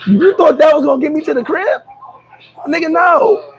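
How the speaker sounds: high, disbelieving retort; incredulous. Retold or imitated. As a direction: scoff at the offer.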